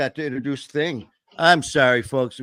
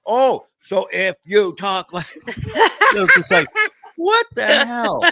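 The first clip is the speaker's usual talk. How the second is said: laughing mockery; 11 semitones higher, 5 dB louder, slower than usual. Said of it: "I go".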